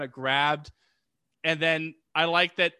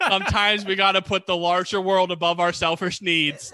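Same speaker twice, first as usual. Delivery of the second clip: sarcastic; 3 semitones higher, 4 dB louder than usual. Retold or imitated. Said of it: "in the most sarcastic voice".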